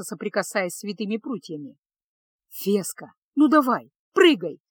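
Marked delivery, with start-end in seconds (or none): 2.5-4.6 прося. Acted. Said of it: "попросил Кайл".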